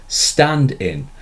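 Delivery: "stand in" with "stand" stressed and "in" light; trochee stress. Shown as a demonstration. Teacher shows students the trochee that opens the line. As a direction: punch "stand", drop "in". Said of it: "The line starts with a trochee".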